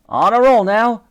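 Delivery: loud, high gleeful cry; elated. A narrator's reading. Titch keeps hitting barrels, elated. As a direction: crow about the winning streak. Cheering the run of hits.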